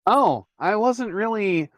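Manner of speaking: polite phone guy fumbling to hang up on a creepy caller; flustered Tom on the phone. Acted. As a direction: stammer out a nervous brush-off.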